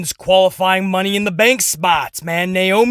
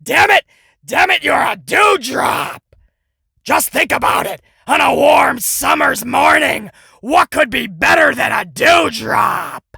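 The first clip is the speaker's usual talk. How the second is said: mock Vince yelling; 4 semitones higher than usual. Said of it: "And Vince is like".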